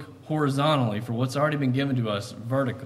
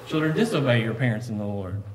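mischievous, disobey slipped in; ornery twist; 3 semitones lower than usual. Retold or imitated. Boy twisting the verse, ornery. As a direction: sneak in disobey like a prankster. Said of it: "just being ornery".

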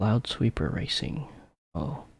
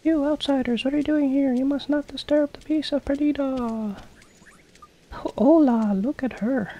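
much higher, louder stern villager voice; a suspicious local warning off strangers, pitched way up; high townsfolk voice; 3 dB louder than usual. Acted. Voices townsfolk reading dialogue.

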